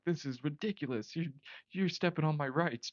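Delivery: lightly hammed-up drunken indignation; mock belligerent. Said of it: "that's how belligerently drunk I was".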